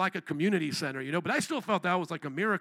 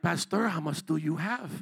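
put-on lower, lightly Spanish-accented voice; hint of Spanish accent; 4 semitones lower, 3 dB quieter than usual. Spanish church members asking the pastor about money, slight Spanish accent. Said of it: "not gonna try to do the Spanish accent".

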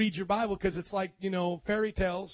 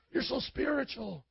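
devil's flattery; 3 semitones higher, 6 dB quieter than usual. Acted. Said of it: "That's how the devil talks".

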